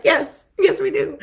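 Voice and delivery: high, loud, laughing agreement; laughing yes. Acted. Therapist's delighted reply.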